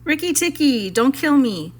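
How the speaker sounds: high, pleading near tears; almost crying. Acted. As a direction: beg for your life, voice close to breaking. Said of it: "almost crying".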